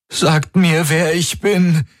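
very high, desperate demand; panicked demand. A narrator's reading. Panicked Galen demands to know who he is.

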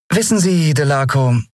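high, sweet and disarming; disarming smile. A narrator's reading. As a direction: smile through the words at him. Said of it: "sagte sie mit entwaffnendem Lächeln".

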